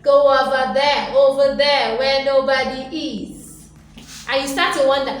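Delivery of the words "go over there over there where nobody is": much louder, brushing someone away; mock exasperated send-off; dismissive shove-off. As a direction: shoo them off to a corner.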